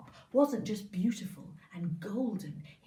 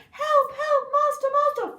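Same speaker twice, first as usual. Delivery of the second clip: high, loud desperate cry for help; panicked harp calling; 13 dB louder than usual. Acted. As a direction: shriek for your master.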